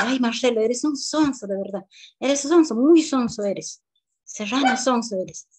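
high, loud contemptuous taunt; insulting teacher. Retold or imitated. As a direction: sneer the insult at the child.

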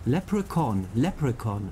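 Leprechaun stressed on the first syllable, LEP; careful Leprechaun, accent up front on Lep. Shown as a demonstration. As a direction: practise Leprechaun with the weight on Lep. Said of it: "Betonung war, glaub ich, die erste Silbe".

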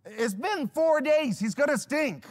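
high, loud mock protest; loud objection. Onlookers object to opening the tomb, loud objection. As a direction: protest loudly, drawing out the words. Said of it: "And they object".

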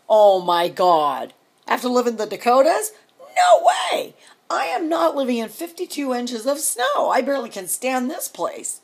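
loud, high protest; exasperated outburst. Retold or imitated. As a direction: blow up at the very idea, peaking on a shout. Acted outburst at husband's plans.

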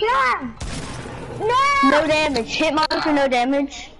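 sharp frantic yell; raging gamer. Real, not acted. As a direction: cry out in frustration. Takes no damage in fight.

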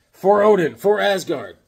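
loud heroic cry; rally the troops with a hammed-up cry; battle cry for Asgard; mock battle cry.

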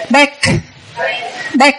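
"Back" with an audible released K at the end; sounded final K. Shown as a demonstration. Teacher drilling final sounds, "Back" ending on a released K. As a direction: release the K clearly after "Back". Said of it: "Âm k, k".

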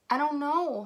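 a touch of whiny complaint; moaning. Acted. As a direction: moan it lightly, fed up. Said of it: "moaned Kansas".

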